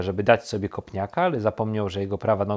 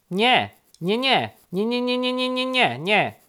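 high, rapid-fire repeated denials; chattering high bird voice; woodpecker denial; 13 semitones higher, 4 dB louder than usual. A narrator's reading. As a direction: rattle it off like pecking. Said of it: "zaprzeczył dzięcioł".

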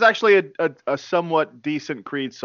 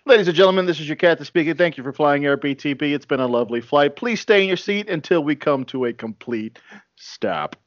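airline captain announcement. Pretend. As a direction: address the cabin like the captain. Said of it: "who's gonna land this plane".

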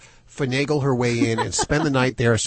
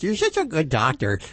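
mock baby talk; 2 semitones higher than usual. Shown as a demonstration. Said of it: "if I talk to you like that".

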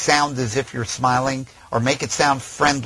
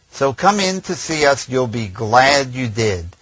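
fake smile without smiling; 5 dB louder, slower than usual. Shown as a demonstration. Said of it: "trying to smile but without actually smiling".

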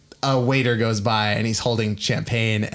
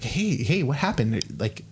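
calming; 3 semitones higher, 3 dB quieter than usual. Acted. Grace grabs Harvey to settle him, calming. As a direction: hush a worked-up friend gently. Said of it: "to calm him down".

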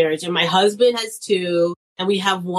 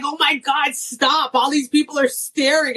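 embarrassed daughter; 6 semitones higher than usual. Retold or imitated. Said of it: "And she's like".

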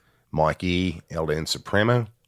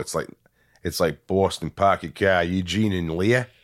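put-on New York accent. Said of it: "No, New York".

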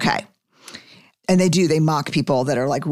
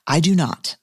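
slow, mocking good for you; sarcastic snap; slower than usual. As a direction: drag out the sarcasm, then cut it short. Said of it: "I snapped right back".

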